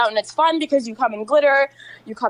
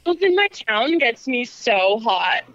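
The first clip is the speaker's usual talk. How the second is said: slow, sultry and teasing; sexy voice. Shown as a demonstration. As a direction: purr it out slowly like a tease. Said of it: "I dare you in a sexy voice".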